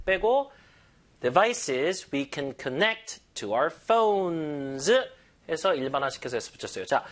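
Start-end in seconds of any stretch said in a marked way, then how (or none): 1.2-4.9 slow model reading. Shown as a demonstration. Teacher models joined phrase after removing that.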